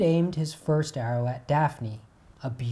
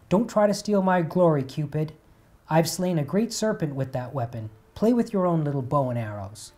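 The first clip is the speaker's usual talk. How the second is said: angry boasting; 3 semitones higher, 4 dB louder than usual. Acted. Apollo mocking Cupid's little bow, angry and loud. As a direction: put the upstart in his place. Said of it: "Apollo asked angrily".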